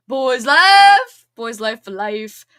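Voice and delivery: excited shout. Real, not acted. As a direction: cheer the book title. Hyping her favorite book.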